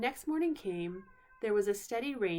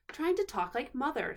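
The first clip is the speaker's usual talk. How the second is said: mocking; 5 semitones higher, 3 dB louder than usual. Edmund mocking Susan.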